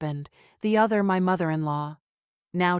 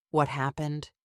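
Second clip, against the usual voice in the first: deep authoritative; 2 semitones lower than usual. Acted. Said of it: "with his deep, authoritative voice".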